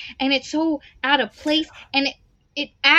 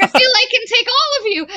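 laughing quote; 9 semitones higher, 5 dB louder, faster than usual. Retold or imitated. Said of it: "she's like".

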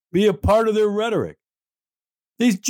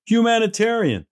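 scoffing; 5 semitones higher than usual. Real, not acted. Scoffing at envoy's word.

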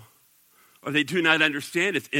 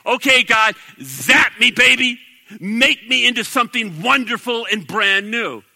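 mock prayer; 3 semitones higher, 5 dB louder than usual. Mock prayer asking God to zap.

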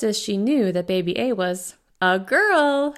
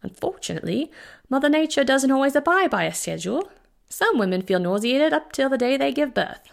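put-on higher, British-accented doctor voice; a touch of a British physician, measured; doctor answers the worried father in a British accent; 7 semitones higher than usual. A narrator's reading. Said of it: "a delightful British accent".

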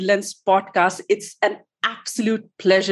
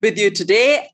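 breathless from excitement; short of breath, rushing words; 3 semitones lower than usual. Real, not acted. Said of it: "I'm running out of breath".

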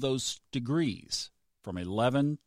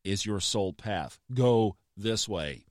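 voice of the universe; 3 semitones lower, slower than usual. Retold or imitated. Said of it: "that's the universe saying".

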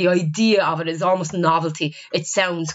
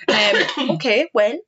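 talking through a cough; clearing a cough, then speaking; 3 semitones higher, slower than usual. Real, not acted. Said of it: "sorry, I keep coughing".

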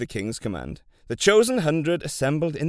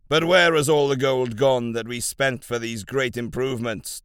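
demanding; 5 dB louder than usual. Acted. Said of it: "demanded the king".

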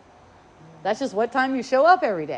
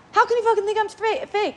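much higher, indignant outburst; inner outrage; 9 semitones higher than usual. Retold or imitated. Her inner reaction to being called fake, indignant. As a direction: blurt the hurt thought. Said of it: "It's like, really fast".

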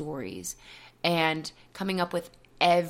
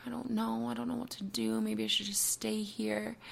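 retold reply, soft and higher; small, hesitant voice; 5 semitones higher, 7 dB quieter than usual. Anxious speaker declining partner's gentle invitation, small and hesitant. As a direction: shrink back quietly, unsure.

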